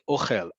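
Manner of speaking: "ochel" stressed on the end, o-KHEL; second-syllable stress. Shown as a demonstration. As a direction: put the weight on the last syllable of "ochel". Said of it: "The second word is a verb".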